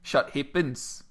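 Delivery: slow demo of a Kiwi accent. Shown as a demonstration. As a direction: say "Shut hippins" slowly with New Zealand vowels. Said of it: "they say an R instead of an E".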